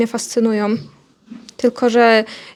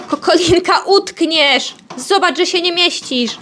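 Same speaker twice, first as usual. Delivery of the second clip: higher-pitched exclamation to a pet; raised-pitch fond warning; warning the hen; 5 semitones higher, slower than usual. Real, not acted. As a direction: scold a pet hen about to get stuck. Warns hen about getting stuck.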